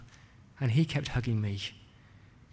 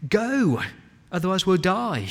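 higher-pitched, pressing plea; urgent urging; 5 semitones higher, 3 dB louder than usual. Acted. Egyptians urging the people to leave, pressing. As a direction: push them out with a raised voice. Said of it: "the Egyptians urged the people".

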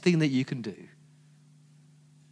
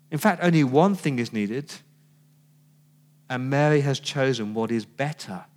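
gently correcting. Retold or imitated. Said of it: "he's gently correcting her".

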